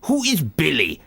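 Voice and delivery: put-on slow, puzzled old dad; lightly voiced confused father; imitating dad. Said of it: "he kept on saying it".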